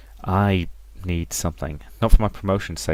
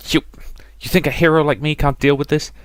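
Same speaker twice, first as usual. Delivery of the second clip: defiant; 8 semitones higher, 3 dB louder than usual. Acted. Grieving hero insists she's fine.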